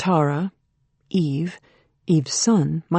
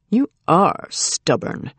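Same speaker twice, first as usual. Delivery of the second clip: impatient; slower than usual. Acted. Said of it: "His voice was impatient".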